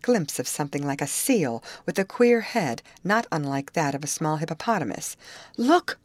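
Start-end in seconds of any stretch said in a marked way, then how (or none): 5.6-6.0 higher, louder call of alarm; excited cry. A narrator's reading. Molly points out the strange creature, excited cry. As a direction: cry out to get their attention. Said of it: "cried Molly".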